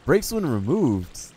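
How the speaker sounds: high, loud, drawn-out disbelief; astonished reread, swooping up high then falling; incredulous repeat. Real, not acted. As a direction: stretch "when removed" high and slow in disbelief. Repeats item text in disbelief.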